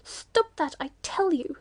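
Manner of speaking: loud, high-pitched squawk of protest; screamed order. A narrator's reading. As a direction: scream it out like an outraged cockatoo. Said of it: "screamed out".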